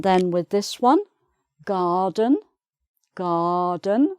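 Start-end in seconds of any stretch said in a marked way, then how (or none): 1.6-4.2 "garden" as "gaah-den", silent R, rising at the end; non-rhotic "garden" with long first vowel; open "ah" vowel. Shown as a demonstration. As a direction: say "garden" the British way without the R. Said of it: "so just the R sound again".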